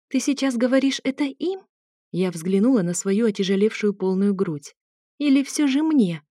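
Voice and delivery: coy wife teasing her husband; capricious. Acted. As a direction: pout it out playfully. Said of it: "спросила я капризно".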